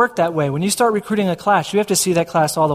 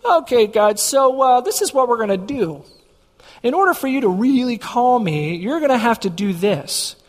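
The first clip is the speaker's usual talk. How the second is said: lightly acted haggling with God; mock bargaining prayer; 3 semitones higher than usual. Setting God conditions for his call, mock bargaining. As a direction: propose terms to God, a touch put-on. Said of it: "talk about the Gideon dance".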